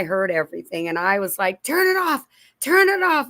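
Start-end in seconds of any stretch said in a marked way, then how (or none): 1.6-3.3 retold panic. Retelling panic in the car.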